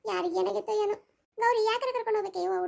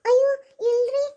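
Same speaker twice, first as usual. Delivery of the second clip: protest; 3 semitones higher, 6 dB louder than usual. Acted. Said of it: "denies blame, cries out".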